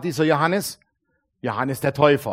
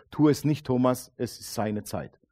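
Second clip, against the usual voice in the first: soft, fading words of Jesus; quiet inner voice; 4 semitones lower, 5 dB quieter than usual. Retold or imitated. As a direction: say it gently, almost to yourself. Jesus voice heard in vision. (leise und sanft, wie eine innere Stimme)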